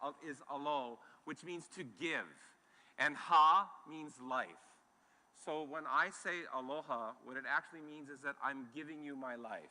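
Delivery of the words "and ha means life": slow, deliberate teaching; slow, spaced teacher delivery; slow explanation. Shown as a demonstration. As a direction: spell out the meaning slowly. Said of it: "The first syllable in aloha".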